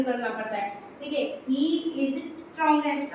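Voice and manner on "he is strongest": example read slowly before writing it down; slowed example. Shown as a demonstration. Teacher showing students the superlative, read slowly. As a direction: say it slowly as you show it. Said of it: "अब हम यहाँ पे क्या लिखेंगे".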